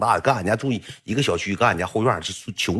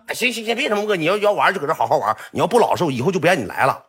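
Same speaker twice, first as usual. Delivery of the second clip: stern warning; 7 semitones higher, faster than usual. Retold or imitated. Old owner warns Yong.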